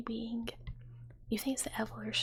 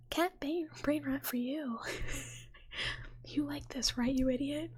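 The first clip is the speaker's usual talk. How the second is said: lightly raised, playful put-on voice; mock brain rot pitch; 4 semitones higher than usual. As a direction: teasingly act out the video's pitch. Acts out cat brain rot video.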